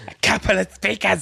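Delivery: high mimicry of a bad Irish accent; mock Irish accent. Teasing a friend's attempt, high mock Irish accent. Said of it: "I don't know what accent that was".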